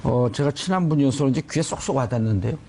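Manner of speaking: ordinary talk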